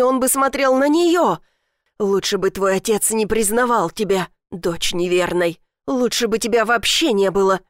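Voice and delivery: furious stepmother. Acted. Furious stepmother blames Elif.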